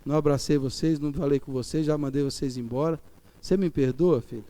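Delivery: quiet, gentle plea to the sons; a father gently asking forgiveness; soft apology. Retold or imitated. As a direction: say sorry softly like a father. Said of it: "Falei assim".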